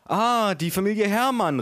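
high-pitched waitress greeting; storyteller's high waitress voice; waitress calling out. A narrator's reading. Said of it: "rief die Kellnerin".

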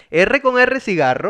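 slow, with R con R trilled; rolled R demo. Shown as a demonstration. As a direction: preview the classic twister slowly. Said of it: "es uno muy clásico".

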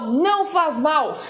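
laughing denial, drawn out. Real, not acted. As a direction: laugh through the words. Laughing denial about rapadura.

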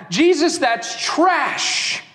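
slow, dismissive judgment; slow contemptuous dismissal; scornful verdict. Acted. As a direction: spit out the verdict slowly. Judging voice of the crowd.

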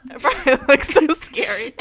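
giggling through the line; laughing. Real, not acted. Laughing at own look.

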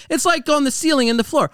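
high cartoon toad explaining simply; mock Chief Toad. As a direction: dumb it down like a cartoon toad elder.

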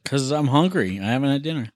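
talking with mouth full; words round a bite. Real, not acted. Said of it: "Why is your mouth full of ice cream".

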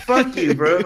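mildly heated retold outburst; a touch of pissed-off edge; retold anger. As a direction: replay telling someone off. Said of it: "I got all pissed off".

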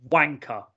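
"wanker" ending in an open A; "wanker" finished on an "ah" sound. Shown as a demonstration. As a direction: say "wanker" as if it ends in A, with no R. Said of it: "sounds like there's an A on the end".

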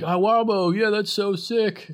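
high-pitched, drawn-out mock enthusiasm; light, high fan gushing; retold gushing. Quotes musician gushing over bands.

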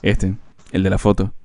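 low, slow, understated boast; imitating proud friend. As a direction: lightly imitate a friend showing off his photo. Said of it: "él siempre decía como que".

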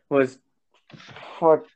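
interrupted by hiccups; talking through hiccups. Real, not acted. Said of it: "I got the hiccups".

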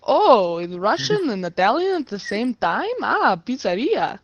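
hammed-up, sing-song Italian accent; mock Italian accent. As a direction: put on a playful Italian accent. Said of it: "why are you Italian?".

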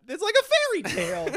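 high, loud words through laughter; laughing. Real, not acted. Laughing at the story.

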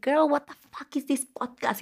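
mock the annoyed listener; imitating listener. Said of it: "Y tú vas a decir".

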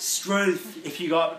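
put-on broad Australian accent. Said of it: "Struth, mate".

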